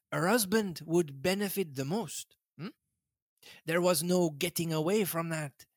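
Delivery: lightly voiced Belgian detective, gently smug; a hint of Poirot, explaining to his friend. Poirot gently teasing Hastings, lightly voiced.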